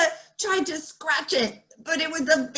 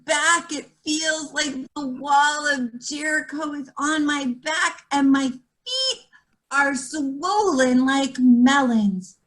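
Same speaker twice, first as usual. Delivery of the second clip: lightly voiced grumbling old lady; complaining old woman. Meshka kvetching to the baker about her aches. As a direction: whine it like a kvetch.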